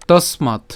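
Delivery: "তসমাৎ" said tos-maat, s closing the first syllable; "তসমাৎ" as a careful model in two syllables; pronunciation demo. Shown as a demonstration. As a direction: stop on the s of "তসমাৎ", then a long maat. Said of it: "আমরা এখানে উচ্চারণ করছি কি".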